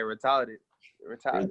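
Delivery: "Retarded" with the r dropped, re-TAW-ded; local drawl. Retold or imitated. Imitating how locals say it, "re-TAW-ded". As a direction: say "Retarded" with an aw and no middle r. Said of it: "They be like".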